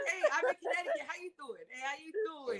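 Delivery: a light East Coast "how you doing", casual; breezy Connecticut accent on "how you doing"; East Coast greeting. Shown as a demonstration. Greeting new friends in a light East Coast accent. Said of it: "You sound kinda like the people".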